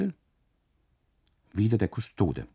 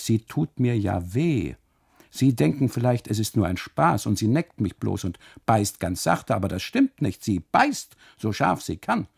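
pained pleading; 2 semitones higher, 4 dB louder than usual. Acted. Custodian pleading to husband.

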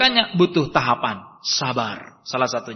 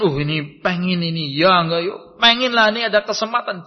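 tempted inner voice. Acted.

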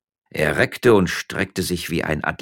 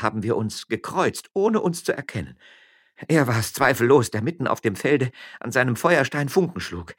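lightly voiced wife, a bit higher; miller's wife explaining; 5 semitones higher than usual. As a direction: recount it with mild animation.

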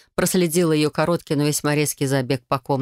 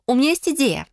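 higher, eager cousin with an idea; excited exclaim; 9 semitones higher than usual. Acted. Cousin suddenly exclaiming her idea to Adel, excited. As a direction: burst out with the idea. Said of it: "а потом воскликнула".

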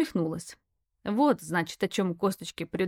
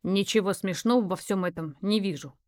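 cold remark. Acted. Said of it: "холодно заметил он".

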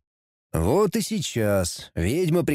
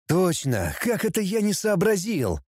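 high sudden realisation; exclaiming; 5 semitones higher than usual. Acted. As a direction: burst out with discovery. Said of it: "воскликнул Астарот".

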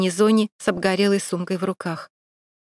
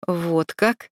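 mocking; 3 semitones lower than usual. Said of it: "незнакомый насмешливый голос".

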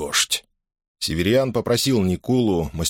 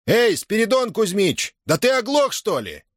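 growled; 13 semitones higher than usual. A narrator's reading. Master at the end of his patience, growling at the boy. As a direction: lose patience and growl at him. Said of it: "прорычал он".

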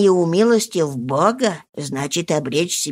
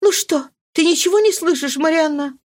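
anxious question; 10 semitones higher than usual. Acted. Mari anxiously asks the maid.

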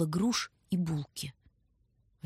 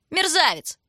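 high, loud teasing echo; mocking the king; 9 semitones higher, 5 dB louder than usual. A narrator's reading. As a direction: mimic the king to tease him. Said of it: "передразнил он короля".

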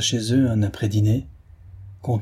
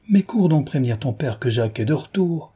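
a touch of lively exclaiming; mild exclaim; 4 semitones higher than usual. Acted. Mother urging her daughter to fetch father, mildly excited. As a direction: call it out with mild sudden eagerness. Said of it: "s'écria tout à coup la pétulante".

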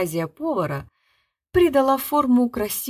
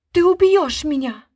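high, loud stage scream; theatrical cry; 6 semitones higher, 7 dB louder than usual. A narrator's reading. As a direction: cry out in mock terror. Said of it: "вскрикнула Арвидова".

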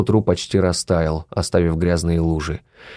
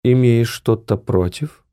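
cold challenge; 4 semitones higher, slower than usual. Acted. Heidi challenging coldly.

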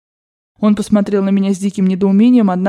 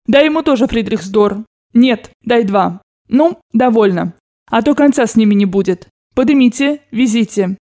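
lightly voiced grandmother. Grandmother ordering servants to give money, lightly voiced. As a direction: hand out orders like a rich old grandmother.

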